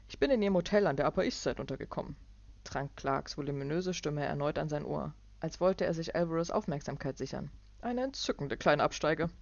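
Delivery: patronise with a big voice; voluminous Clark. Acted.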